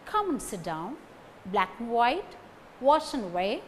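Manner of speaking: "and" shrunk to an unstressed n; weak "and". Shown as a demonstration. Teacher showing weak forms to learners, reduced "and". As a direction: say "and" as just n between the words. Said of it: "and becomes n".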